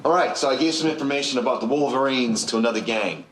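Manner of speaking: indignant excuse, building in pitch; heated self-justification. Acted. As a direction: argue your case with rising pitch.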